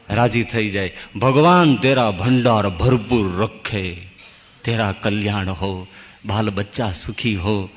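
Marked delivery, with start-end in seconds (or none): 1.1-7.7 lightly voiced begging holy man, drawn out, sinking lower; mendicant's blessing. Fed beggar blesses his giver, slow mendicant's blessing. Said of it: "આશીષ આપવા માંડે".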